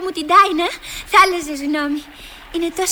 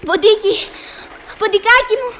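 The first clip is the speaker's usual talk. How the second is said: calling out; 3 semitones higher, 5 dB louder than usual. Acted. Alice calls out to the mouse.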